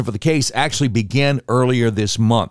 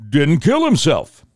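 slow, high-pitched, deliberate emphasis; pointed aside; 5 semitones higher, slower than usual. Real, not acted. Host slipping in a jab about Epstein's death, pointed aside. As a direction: land each word slowly, pitched up.

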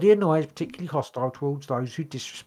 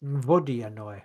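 Russian accent; 3 semitones lower, slower than usual. Shown as a demonstration. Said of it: "it makes you say it in a Russian accent".

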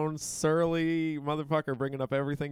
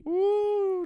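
excited whoop; 5 dB louder than usual. Real, not acted. Excited about jackets.

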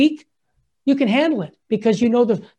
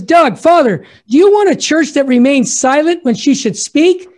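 louder and higher, calling to the crowd; pope's rallying call; 4 semitones higher, 5 dB louder than usual. Retold or imitated. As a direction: rouse a huge square like the Pope. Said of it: "The Holy Father says".

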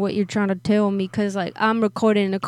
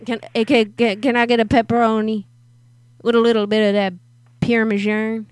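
prank caller voice; 2 semitones higher, 4 dB louder than usual. Acted. Prank caller persona ordering.

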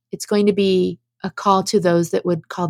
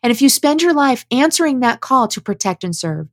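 measured read-aloud statement with firm emphasis on key words; earnest prepared address. Acted. Activist reading a written call to fellow Christians, earnest formal address. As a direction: deliver it as an earnest written appeal.

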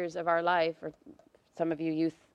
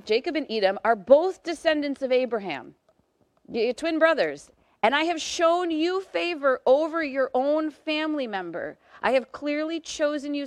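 higher, louder voice of an offended God; lightly voiced God laying out his case; indignant God; 5 semitones higher, 3 dB louder than usual. God reminding Israel he chose them, raised and insistent. God's reply voiced in sermon.

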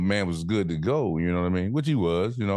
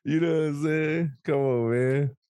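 a hint of a higher goofy voice; playful put-on voice; 7 semitones higher than usual. Joking with his friend in a goofy voice. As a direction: toss it off in a mock silly voice.

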